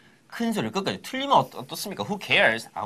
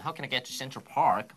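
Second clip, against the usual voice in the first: slowed teaching demo; 3 semitones lower, 3 dB quieter, much slower than usual. Shown as a demonstration. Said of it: "거기에는 how".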